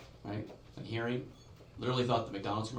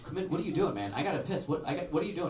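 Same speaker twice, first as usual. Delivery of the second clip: higher, exasperated protest; 6 semitones higher, faster than usual. Retold or imitated. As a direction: push back, fed up and shrill. Exasperated repeat, pitch up.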